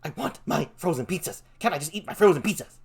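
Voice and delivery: lightly acted petulant whining; mock tantrum. Customer retelling his outburst in the pizza store, mock tantrum. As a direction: act out a mild childish tantrum. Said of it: "I threw a tantrum right in the store".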